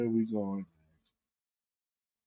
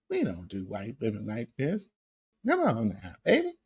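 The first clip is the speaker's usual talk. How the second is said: mock plea; 4 semitones lower, 8 dB quieter than usual. Mocking plea, soft.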